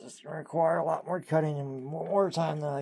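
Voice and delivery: full voice. Real, not acted. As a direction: drop the whisper and speak out. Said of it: "Not doing good in the A S M R voice".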